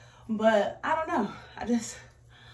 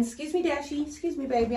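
higher-pitched coo to a little one; sweet aside; 7 semitones higher than usual. Real, not acted. Vlogger pausing to get past Dashy, sweet aside. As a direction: break off and sweetly excuse yourself.

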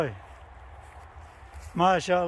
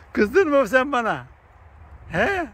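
coaxing the animal; 5 semitones higher, slower than usual. Real, not acted. Man asking a cow if it's angry at him, slow higher coaxing. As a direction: ask the cow gently if it's cross, drawn out.

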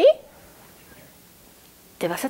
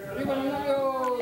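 shout; faster than usual. Shown as a demonstration. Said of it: "¿cómo gritamos?".

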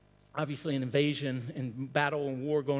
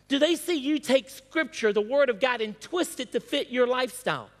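higher-pitched pulpit challenge; fervent preaching; 7 semitones higher, 4 dB louder than usual. Real, not acted. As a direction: challenge the congregation with insistent questions. Presses congregation with questions.

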